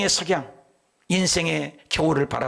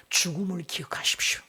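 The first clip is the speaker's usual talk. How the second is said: hushed reminder; 3 semitones higher, 4 dB quieter than usual. Acted. Repeated solemn reminder to king.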